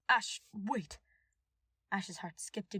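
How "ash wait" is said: calling out. A narrator's reading. King calling Ash back.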